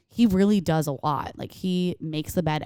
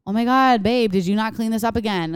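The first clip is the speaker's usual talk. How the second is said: exasperated outburst; 3 semitones higher, 4 dB louder than usual. Retold or imitated. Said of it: "I'm just like".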